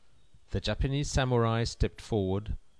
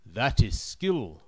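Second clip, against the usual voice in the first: slow regal emperor; 4 dB louder, slower than usual. Acted. Emperor approves slowly.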